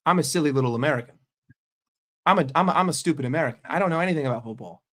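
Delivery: quick mock-humble patter; mock self-deprecation. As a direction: rattle off a sarcastic self-put-down. Mock self-deprecation about being American.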